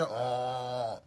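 low, soft groan held out; imitated growl. Preacher imitating a possessed man, low growl. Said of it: "il grognait".

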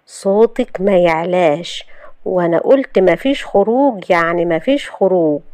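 slow, controlled firmness; stern warning. Acted. Youssef forbidding Shahd to go out, stern and slow. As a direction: lay down the law slowly without raising the voice. Stern husband lays down law.

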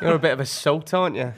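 lightly put-on laddish banter; Producer Ben on Talk Sport. Producer teasing a girl on air, mildly laddish impersonation. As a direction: tease like a cheeky radio lad. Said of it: "Producer Ben on Talk Sport".

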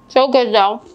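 "So good though" through a mouthful; mouth full. Real, not acted. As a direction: talk round a bite of biscotti. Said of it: "I always talk with my mouth full".

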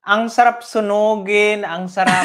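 loud joking outburst against the mistress; mock fury. Host ranting at mistresses, loud mock fury. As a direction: vent it loud, half joking.

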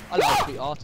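very high squealed hello; mock sweet greeting. Greeting a player as sweetheart, high put-on squeal. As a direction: pitch it way up, playfully.

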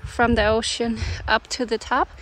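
breathless after the climb; out of breath. Real, not acted. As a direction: talk while catching your breath. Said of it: "I'm a little bit out of breath".

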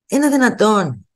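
slow, indignant disbelief, pitch up; incredulous. Real, not acted. A vlogger recalls a greedy therapist, slow and incredulous. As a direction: ask it in outrage.

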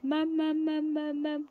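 coaxing "mum". Retold or imitated. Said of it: "every day I'm like".

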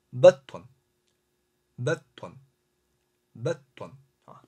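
beton with a brief hold on the doubled t; teacher modelling beton, slight pause before ton; slight mid pause. Shown as a demonstration. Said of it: "中间稍微停顿一下".

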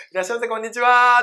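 high, quick welcome call, last vowel stretched; imitated service-counter voice; coffee shop staff. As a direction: sing out a barista's greeting. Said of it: "僕らスタバの列とか並んでて".

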